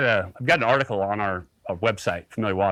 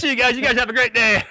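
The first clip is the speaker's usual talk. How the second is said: very high, louder farewell; gloating goodbye; 12 semitones higher, 5 dB louder than usual. Retold or imitated. Leaving Craig after the catch, high and gloating. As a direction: rub it in sweetly. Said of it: "I'm like".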